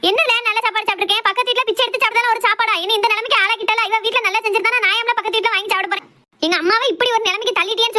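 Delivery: high, heated protest to her son; mother pleading her grievance to her son; aggrieved complaint. Acted. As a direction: play the wronged mother.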